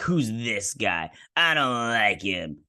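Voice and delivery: slow, drawn-out grumbling complaint; mock disapproval. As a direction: stretch each word in mock dislike. Acted suspicious character in retold scene.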